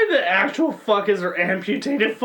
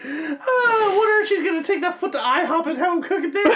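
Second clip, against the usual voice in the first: laughing; 10 semitones higher than usual. Real, not acted. High laughing voice.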